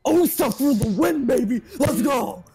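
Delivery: hyped victory shout; excited cheer. Real, not acted. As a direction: whoop it up after the clutch. Clutch defuse win celebration.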